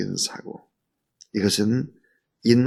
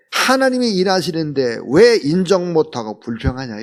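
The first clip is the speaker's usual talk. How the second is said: higher, louder reproachful challenge; scolding rebuke; 6 semitones higher, 6 dB louder than usual. Retold or imitated. Preacher voicing Elihu rebuking Job, scolding louder. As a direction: scold like a self-righteous know-it-all.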